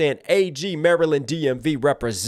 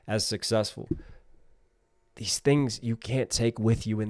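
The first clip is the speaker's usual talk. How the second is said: lower, softer, heartfelt words; sincere closing; 4 semitones lower, 4 dB quieter than usual. Real, not acted. Streamer thanking viewers at the end, sincere and soft.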